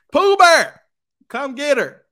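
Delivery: high, loud mock holler; calling out. Calling stepdad to come get her, loud pretend holler. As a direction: shout as if summoning someone from far away.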